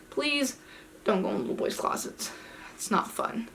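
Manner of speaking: hushed advice to viewers; whispered warning. Real, not acted.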